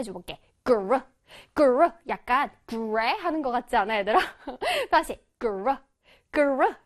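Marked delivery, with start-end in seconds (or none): 0.6-1.9 그르 said forcefully; strong GR sound. Shown as a demonstration. Teacher drilling the start of grape, strong 그르. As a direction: hit the g-r in 그르 hard. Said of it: "그르를 아주 강하게, 강하게 한번 발음해".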